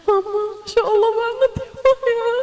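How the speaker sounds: put-on high, awed little child voice. Preacher voices a nine-year-old in awe of a hubabah, high and childlike. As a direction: marvel like a small kid tugging mom.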